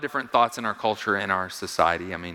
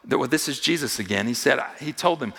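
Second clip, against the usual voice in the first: normal talking voice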